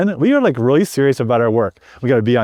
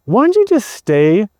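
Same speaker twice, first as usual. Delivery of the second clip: put-on pleading children; 3 semitones higher than usual. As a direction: beg Daddy to stay like a small child. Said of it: "They're pleading with me".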